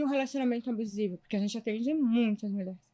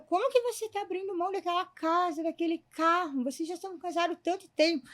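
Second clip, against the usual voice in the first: higher-pitched mock family scolding; raised pitch, challenging the choice; retold reproach; 5 semitones higher than usual. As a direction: lightly imitate incredulous, disapproving relatives. Family reproaching her decision, retold.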